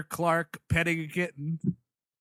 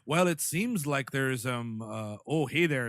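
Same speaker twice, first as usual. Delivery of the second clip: bad Canadian accent; 4 semitones lower, slower than usual. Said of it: "now I'm doing a bad Canadian accent".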